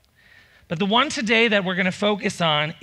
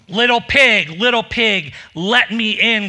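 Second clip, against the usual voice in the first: mild growly wolf, a bit louder; wolf growling; 3 semitones higher, 4 dB louder than usual. Acted. Wolf at the straw house door, mild growl. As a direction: play the hungry wolf at the door. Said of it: "growled the wolf".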